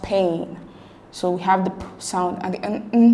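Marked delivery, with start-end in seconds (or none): 0.0-0.6 pain said carefully, set apart as one syllable; pronunciation demo. Shown as a demonstration. Teacher reading option D for transcription, careful pronunciation of pain. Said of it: "option D is pronounced". 1.7-3.1 P as a bare puff, N as "nn"; isolated consonant sounds. Shown as a demonstration. Teacher breaking down pain, isolated P and N sounds. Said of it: "sound as well".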